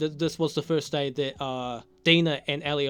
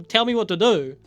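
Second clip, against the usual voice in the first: higher, louder imitation of panic; mock panic; 6 semitones higher, 6 dB louder than usual. Ellie begging the dying woman for help, mock panic. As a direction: plead for instructions in a half-hammed fluster.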